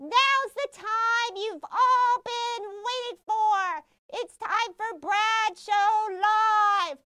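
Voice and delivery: slow, drawn-out show introduction; show announcer. Acted. Introducing the host and co-host to viewers, announcer style. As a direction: stretch out the names like a show announcer.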